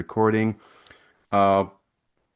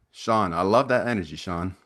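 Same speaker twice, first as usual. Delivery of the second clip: sarcastic. Acted. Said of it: "I'm being sarcastic".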